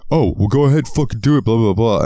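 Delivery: put-on taunting jealous boyfriend; mock taunt.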